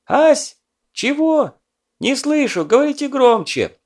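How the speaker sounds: high, loud half-deaf calling out; to someone hard of hearing. A narrator's reading. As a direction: call out like you can't hear. Filippov with clay-blocked ears.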